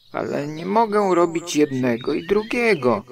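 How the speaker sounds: a stuck bear calling for help. A narrator's reading. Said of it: "wołał". (wysokie, głośne, bezradne wołanie)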